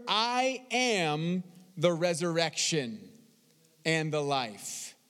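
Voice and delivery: slow, low solemn reading of Jesus' words; solemn Jesus. Acted. Preacher voicing Jesus to Martha, low and slow. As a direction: let each word land slowly.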